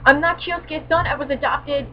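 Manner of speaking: high, loud oh my god; hammed-up shock at being adopted; shocked discovery. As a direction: reel from the news. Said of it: "finds out that".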